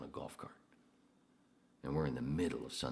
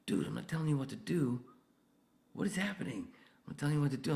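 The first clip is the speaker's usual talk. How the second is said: high, louder exasperated protest; incredulous defence; 6 dB louder, faster than usual. Retold or imitated. Insisting to the coworker he isn't bossing him, high exasperated. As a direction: squeak out your innocence.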